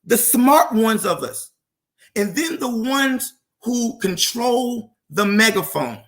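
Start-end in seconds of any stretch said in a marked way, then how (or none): 2.1-6.0 the megaphone drawn out slowly and firmly; slow emphasis. Shown as a demonstration. Commentator pressing his point on the megaphone, slow and firm. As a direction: lean hard on the megaphone, slower than the words before it. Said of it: "I keep emphasizing that word".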